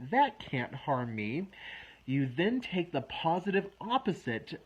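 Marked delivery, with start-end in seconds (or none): 0.1-1.5 each word slow and firm; slow, deliberate affirmation. Shown as a demonstration. Coach shows clients the calming phrase, slow and deliberate. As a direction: say it slowly so it sinks in. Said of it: "and then you say".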